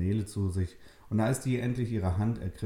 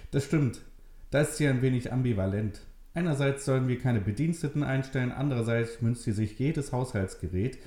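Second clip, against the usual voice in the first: put-on lightly raised friendly young man; easy chatty host, a bit higher; young man Richard; 5 semitones higher than usual. Richard explains Maria's quirks, lightly voiced young man.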